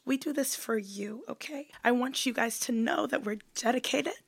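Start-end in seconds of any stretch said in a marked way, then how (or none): 1.8-4.1 hoarse voice from a cold; sore cracking voice. Real, not acted. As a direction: push through a sore throat. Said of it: "my voice is literally sore and cracking".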